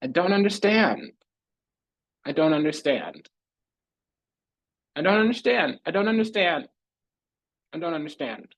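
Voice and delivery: high-pitched plaintive wail, falling at the end; dramatic bewilderment. Acted. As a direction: lament it high, over and over. Repeated theatrical cry of incomprehension.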